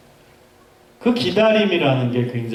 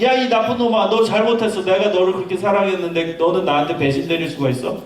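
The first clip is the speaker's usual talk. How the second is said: lightly raised, higher mock scolding; hammed-up betrayed scolding, a touch higher; mock angry God; 4 semitones higher than usual. God scolding Abraham for his betrayal, mildly mock angry. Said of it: "막 화를 내시지도 않아요".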